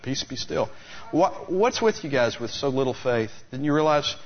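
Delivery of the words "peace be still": softly, with no need to shout; calm quiet command. Retold or imitated. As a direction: hold the hands up and quietly still the storm. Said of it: "held them up and said".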